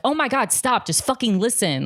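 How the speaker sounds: high-pitched, exasperated mock outburst; acted snapping. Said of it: "I don't snap like that".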